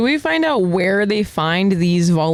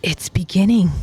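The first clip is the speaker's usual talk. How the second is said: mildly ominous pronouncement. Acted. Gabi noticing the airship overhead, understated ominous tone. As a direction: give it a touch of foreboding. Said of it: "as she ominously says".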